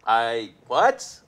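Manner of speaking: loud, high, straining to hear; shouting over noise. Retold or imitated. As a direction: yell like you can't hear a thing. Shouting over loud convention hall.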